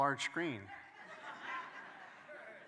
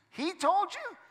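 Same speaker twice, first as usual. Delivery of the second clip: much higher, louder shocked squeak; 4 dB louder than usual. Acted. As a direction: gasp it out in disbelief. Acted shocked gossip exchange.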